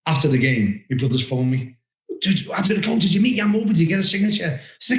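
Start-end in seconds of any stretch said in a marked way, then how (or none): 2.2-4.6 mock excited brother. Brothers voiced on the phone.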